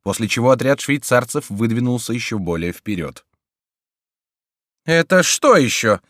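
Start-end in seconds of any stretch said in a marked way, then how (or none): 4.9-6.0 high, loud startled question; pale cry. A narrator's reading. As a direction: cry out, suddenly scared. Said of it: "вскричал Фриар бледнее".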